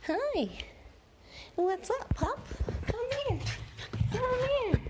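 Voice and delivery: high sweet calling. Real, not acted. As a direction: call the puppy high and soft. Calling the dog over.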